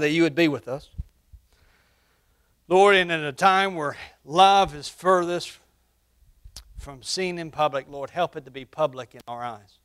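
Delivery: prayer. Acted. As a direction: pray gently over the congregation. Leads a prayer.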